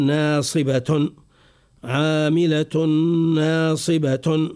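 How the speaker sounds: عاملة ناصبة ending on the vowel instead of stopping on h; wrong stop on vowel. Shown as a demonstration. Teacher demonstrating the mistaken stop on a vowel. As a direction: pause on عاملة and ناصبة with the final vowel still sounding. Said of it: "وهذا معناه خطأ".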